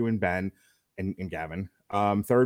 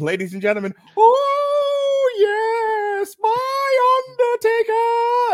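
very high, loud, swooping voice with stretched oh; 7 dB louder than usual. Acting out an intro gimmick for the show: Paul Bearer impression. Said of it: "almost like a Paul Bearer script".

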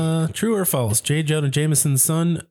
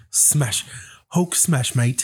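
put-on British monster voice. Joking about a British version of the Hulk: British accent as Union Jack Hulk. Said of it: "a Union Jack fucking Incredible Hulk".

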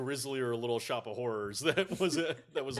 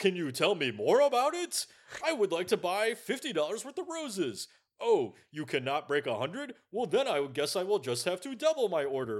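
mock robotic voice, higher pitch; 5 semitones higher, 4 dB louder than usual. Imitating a movie customer who talks like a robot. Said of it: "anybody who speaks like such a robot".

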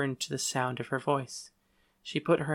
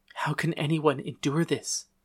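plain reading voice

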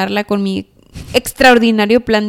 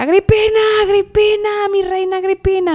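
very high, cheering crowd-like shout; 10 semitones higher than usual. Retelling how people on a boat began shouting: imitating people shouting. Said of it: "empezaron a gritar".

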